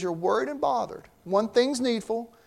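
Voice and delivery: soft, reassuring, unhurried; Jesus calming worried Martha, reassuring. Retold or imitated. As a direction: talk sense into her kindly. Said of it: "he just kinda talks some sense to her".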